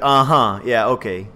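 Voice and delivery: dismissive, half-bothered acknowledgement; imitating an unimpressed brush-off; shrugging it off. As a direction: brush them off with a low, easy reply. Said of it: "He was more like shrugging it off".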